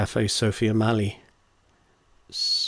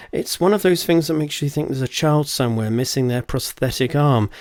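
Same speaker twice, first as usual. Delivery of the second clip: Connie's voice; 4 semitones higher, 4 dB louder than usual. Acted. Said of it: "her accent testament".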